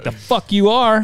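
high, slow cocky comeback; defiant retort. Retold or imitated. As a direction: dare him to try. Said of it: "And I was like".

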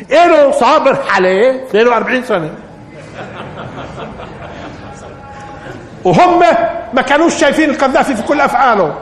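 high, ringing sermon voice building to a peak; fiery preaching. Acted. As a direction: preach it out with mounting fervour. Impassioned preaching on God's patience.

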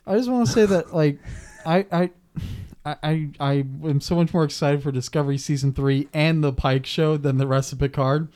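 talking while chewing a cookie; words round a bite of cookie; mouth full. Real, not acted. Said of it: "so my mouth is kinda full".

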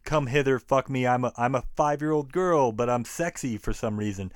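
a hint of breathless cartoon flirt; mock Betty Boop voice. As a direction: tease the cutesy Betty Boop style without committing. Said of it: "That whole Betty Boop sounding bullshit".

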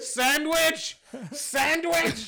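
high, pleading "sandwich" twice; mock pleading. Mock frustrated repeated order.

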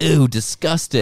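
high, fast, loud ew; snobby disgust. Retold or imitated. Rich guest sneering at the poor girl, loud and high. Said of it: "he's actually like".

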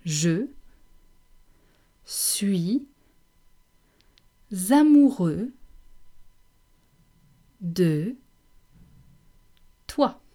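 je suis amoureux de toi, one word at a time with long pauses; slow syllable drill. Shown as a demonstration. Teacher saying it together with the class, word by word. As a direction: draw amoureux out slowly. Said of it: "let's say it together".

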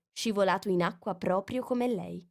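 usual speaking voice

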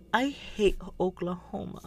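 high, soft imitation of a timid girl; quiet mock Bobby. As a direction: squeak it out like a shy girl. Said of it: "this quiet".

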